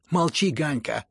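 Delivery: loud, high order to shut up; shouting. A narrator's reading. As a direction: shout your brother down. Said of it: "закричал Коля".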